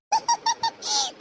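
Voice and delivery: very high, rapid tittering; teasing giggle. Acted. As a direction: giggle high at having fooled them. Gloating after fooling them. (கேலியான கீச்சுச் சிரிப்பு)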